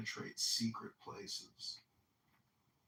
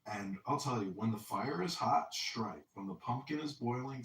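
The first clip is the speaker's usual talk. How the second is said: ordinary talk, nothing marked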